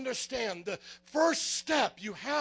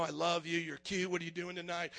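softer, low mock flirting; mock flirty murmur; 5 semitones lower, 7 dB quieter than usual. Preacher mocking a flirty Jesus, soft low murmur. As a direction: murmur it like a smooth pickup line. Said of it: "my love for you".

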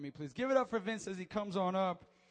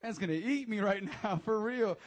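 laughing; 5 dB louder than usual. Retold or imitated. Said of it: "And I'm like".

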